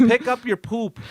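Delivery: high, slow, fed-up demand; exasperated outburst. Real, not acted. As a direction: spell it out like a scolding. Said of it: "Pat's on a roll".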